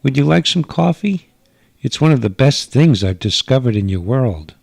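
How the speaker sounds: a gracious hostess from another world; alien mother. Acted. Alien mother greets guest.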